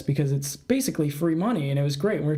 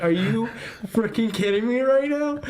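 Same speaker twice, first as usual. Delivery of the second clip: deadpan; 5 semitones higher than usual. Retold or imitated. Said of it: "like, deadpan".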